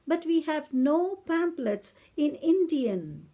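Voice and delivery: slow, talking-down British English; patronizing old lady. Retold or imitated. Old lady apologizes for no Indian pamphlets, patronizing slow British English. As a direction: imitate an elderly lady condescending kindly, word by word. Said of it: "She said it in such a con-, con-, such a patronizing way".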